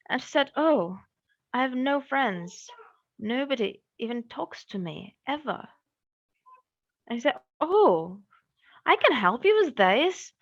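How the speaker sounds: gentle fairy tale narration; storytelling. A narrator's reading. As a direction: tell it like a bedtime story.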